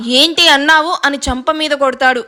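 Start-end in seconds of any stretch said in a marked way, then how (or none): 0.1-1.0 angry. Acted. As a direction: snap back at her threat. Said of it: "ఒకడు కోపంగా".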